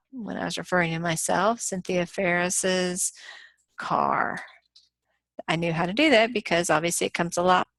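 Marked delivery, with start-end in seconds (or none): 1.6-3.1 "Cynthia Ferris's" slowly, with the extra "iz" at the end. Shown as a demonstration. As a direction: say "Ferris's" slowly, with the added syllable. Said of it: "So if I wanted to say".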